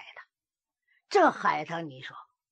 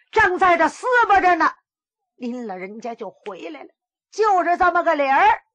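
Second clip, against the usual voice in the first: aggrieved wife pleading; 3 semitones higher than usual. Acted. Haitang pleads her false story.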